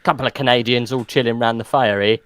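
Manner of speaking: a lightly put-on Canadian accent, drawing out "eh"; mock Canadian accent. Joking to his co-host about Canadian businessmen, in a light mock Canadian accent. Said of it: "was that an accent?".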